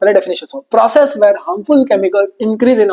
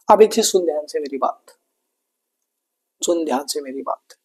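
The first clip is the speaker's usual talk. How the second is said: whisper; 4 semitones lower, 6 dB quieter than usual. Acted. Teacher lowers voice for a key point.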